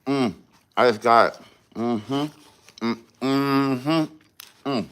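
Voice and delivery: talking while chewing; words round a bite of food; mouth full. Real, not acted. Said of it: "I won't talk with my mouth full".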